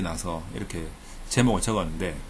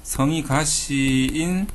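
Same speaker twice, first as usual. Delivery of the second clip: usual speaking voice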